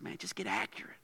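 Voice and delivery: hushed, low, near-whisper; quiet, understated urging; God, aside. Acted. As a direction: drop to a low confidential murmur. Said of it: "and God said".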